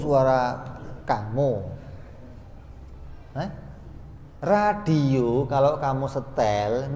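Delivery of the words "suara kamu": usual speaking voice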